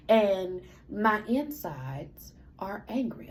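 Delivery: slow whisper, no voice at all; hushed anger. Real, not acted. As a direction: breathe it out like a secret. Confessing inner rage, hushed.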